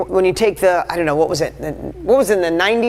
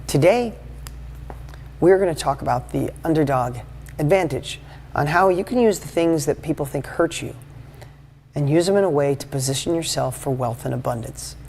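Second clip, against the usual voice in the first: a mild, quieter dry lecture tone; boring presenter; 3 semitones lower, 5 dB quieter than usual. Shown as a demonstration. Speaker demos the dry opener that bores viewers, quiet. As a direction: sound like a dull talk everyone tunes out of. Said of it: "You guys would be done with me in five minutes".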